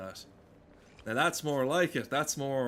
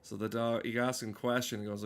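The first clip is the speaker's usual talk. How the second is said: ordinary talk, nothing marked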